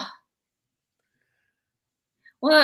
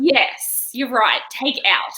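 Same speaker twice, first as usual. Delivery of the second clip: exaggerated concession; 3 semitones higher, 4 dB louder, much slower than usual. Retold concession to the server.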